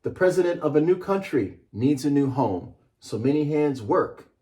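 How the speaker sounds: measured storybook read-aloud. Acted. Author reading his book to a class, measured and rhythmic. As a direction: read it like a picture book to children.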